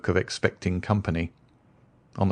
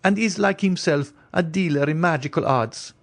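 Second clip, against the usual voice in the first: higher, anxious noblewoman's voice; the Countess; 11 semitones higher than usual. Acted. Countess warning Franz away from the stranger, higher anxious voice.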